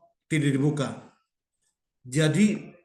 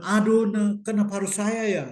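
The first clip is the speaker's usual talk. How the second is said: mildly whiny lament, higher pitch; higher-pitched "why me" complaint; a put-upon mock moan; complaining; 5 semitones higher than usual. Voices a self-pitying complainer.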